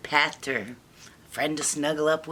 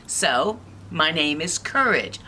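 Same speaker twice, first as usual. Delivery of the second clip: bold self-introduction; 5 dB louder than usual. Acted. Courage introduces herself boldly.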